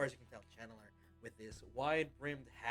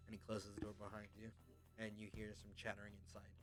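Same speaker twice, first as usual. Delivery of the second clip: normal talking voice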